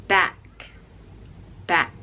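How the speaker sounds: wide-mouthed back; smiling ah. Shown as a demonstration. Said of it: "this is with a smile".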